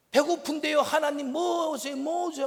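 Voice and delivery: loud, high-pitched pestering of God; demanding, arguing prayer. Acted. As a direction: argue back loudly, insisting on being given something. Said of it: "하면서 따지고 있는 거야".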